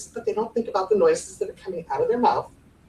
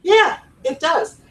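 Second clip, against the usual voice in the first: drawn out; 8 semitones higher, 3 dB louder, slower than usual. Shown as a demonstration. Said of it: "the end of a question in English goes up".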